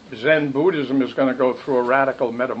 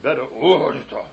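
slow, lightly voiced teacher's verdict; teacher Sasaki's reply; 2 semitones lower, slower than usual. Zen teacher answers the student who cried, slow and lightly voiced. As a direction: draw it out like the old master. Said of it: "He said".

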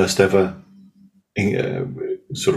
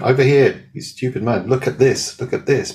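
high, squawky talking crow; 6 semitones higher than usual. Retold or imitated. Crow pointing at the tree, high and squawky. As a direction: speak as a bossy crow. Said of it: "I love your sound effects".

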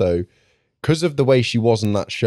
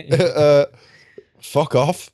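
laughing; 6 semitones higher, much slower than usual. Real, not acted. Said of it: "laughing dismissal".

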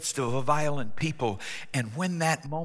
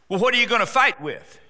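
higher, louder question; incredulous Saul; 7 semitones higher, 5 dB louder, faster than usual. Acted. Saul questioning David's weapon, incredulous. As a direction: ask in disbelief.

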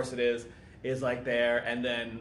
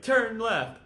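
higher, raised-voice retold order; called-out command; 8 semitones higher, 4 dB louder than usual. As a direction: call it out like an urgent instruction.

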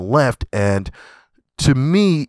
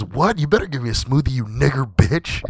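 mock angry threat; 4 semitones higher than usual. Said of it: "And he goes".

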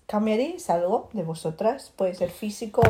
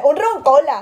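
corrigiendo con voz imitada; 2 semitones higher, 6 dB louder than usual. Retold or imitated. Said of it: "me dijiste".

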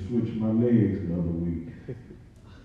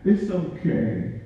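"It's okay" pitched higher and drawn out very slowly; a light imitation of a little girl, higher and very slow; higher mock child; 6 semitones higher, much slower than usual. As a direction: echo the child's words higher and stretched. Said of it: "I'm like".

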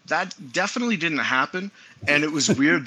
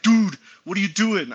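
higher-pitched imitation of a millennial texter; James; 6 semitones higher, 4 dB louder than usual. Reading out a friend's weird text, in his imitated higher voice. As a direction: put on a friend's pushy "duuude" voice. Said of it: "plug in the James voice".

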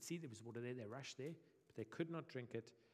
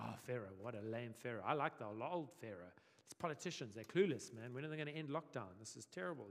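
a lightly voiced whiny complaint, a touch lower; mock moaning; 3 semitones lower than usual. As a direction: whine it like grumbling slaves. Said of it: "They just moan and moan".

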